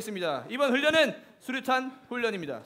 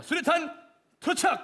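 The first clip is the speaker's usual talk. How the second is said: grenade warning yell; 5 semitones higher than usual. Acted. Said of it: "적에게 수류탄을 던집니다".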